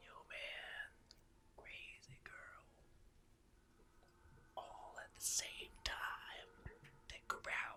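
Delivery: whispered, barely voiced, very quiet, breathy. Player backs up and speaks to the others, in a whisper. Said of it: "I'm gonna whisper like".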